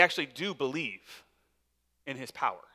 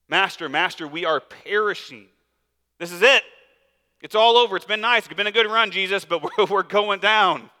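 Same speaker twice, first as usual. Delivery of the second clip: hammed-up doom, louder and higher, half laughing; mock panic; 3 semitones higher, 6 dB louder than usual. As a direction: disciples wailing to Jesus that the boat is sinking. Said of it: "They're freaking out".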